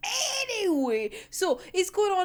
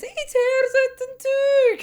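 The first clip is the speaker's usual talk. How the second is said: high, slow, stunned exclamation; pitched-up outrage at the page tearing; outraged disbelief; 9 semitones higher, slower than usual. Real, not acted. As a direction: spit it out in disbelief. Outraged at the manga panel.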